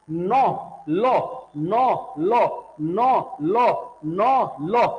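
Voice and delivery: नौ and लो alternated evenly, tongue on the gum ridge; chant-like drill of नौ, लो with short gaps; alveolar sound drill. Shown as a demonstration. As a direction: say नौ, लो in turn from the same tongue spot. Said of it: "बोल के देखो जीभ आपकी एक ही जगह पे".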